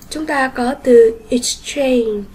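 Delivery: exchange said slowly, second syllable stressed; teacher models exchange with stress on change. Shown as a demonstration. Teacher introducing new word to class, slow and stressed. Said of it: "nhấn vào chiếc số hai".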